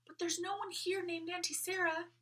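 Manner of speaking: high little doll voice; a toy talking from inside a box; light high doll voice. A narrator's reading.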